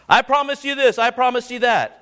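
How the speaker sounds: ape a politician's hollow promises; mocking politician. Politicians voiced making promises.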